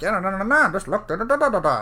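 high mocking brush-off. Mimicking the head professor's quick dismissive answer, high pitched. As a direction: rattle it off like a busy professor.

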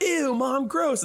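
put-on high-pitched grossed-out kid; hammed-up high "yuck" voice; mock disgust. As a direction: play a cartoon son recoiling from food. Acts son disgusted by mom's milkshake.

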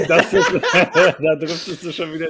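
bursting out laughing. Real, not acted. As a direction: laugh through the words. Laughing at the Italian.

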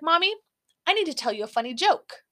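put-on high, eager little-kid voice; toddler voice. Mom imitating her toddler son eagerly begging, high and bright. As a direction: play the toddler bursting to tell his joke.

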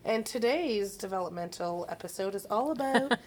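measured, professional presenter tone; teacher voice. Acted. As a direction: announce it like a teacher. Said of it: "Very professional sounding there".

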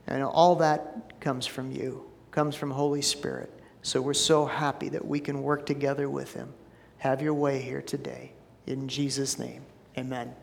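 soft, unhurried prayer voice. Real, not acted. Pastor praying over the service, soft and reverent. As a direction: pray gently and sincerely to the Father.

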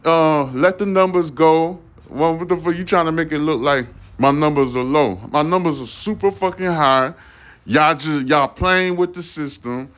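comically furious complaint, pitched far above normal; mock outraged rant. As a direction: demand your money back like you've been robbed, voice way up high. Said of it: "I'm like".

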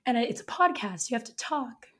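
hoarse, lost voice; raspy whisper. Real, not acted. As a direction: speak through a raspy, worn-out throat. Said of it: "we get to hear her with no voice".

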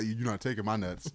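a quiet, defiant growl; kangaroo impression. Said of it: "Do your kangaroo impression again".

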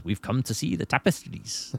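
mock the bad Scottish accent of the film. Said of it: "a horrendous Scottish accent".

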